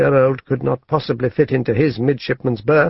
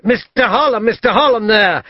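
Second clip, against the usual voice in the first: higher, louder call across the street; 8 semitones higher, 3 dB louder than usual. A narrator's reading. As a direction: hail him back as he walks off. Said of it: "And then aloud".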